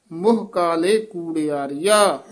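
ਮੁਹ ਕਾਲੇ ਕੂੜਿਆਰੀਆ, resting after ਕੂੜਿਆਰੀਆ; full pause after ਕੂੜਿਆਰੀਆ. Shown as a demonstration. Teacher showing the resting point, pause after ਕੂੜਿਆਰੀਆ. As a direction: come to rest on ਕੂੜਿਆਰੀਆ. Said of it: "ਇੱਥੇ ਵਿਸਰਾਮ ਹੈ".

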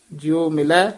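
ਮਿਲੈ lifted, then a short halt; slight pause after ਮਿਲੈ. Shown as a demonstration. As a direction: stop briefly on ਮਿਲੈ. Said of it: "ਇੱਥੇ ਵੀ ਠਮਕ ਹੈ". (ਮਿਲੈ ਤੇ ਠਮਕ)

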